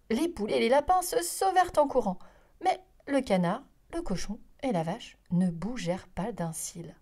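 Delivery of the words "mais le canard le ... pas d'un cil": ordinary delivery, nothing marked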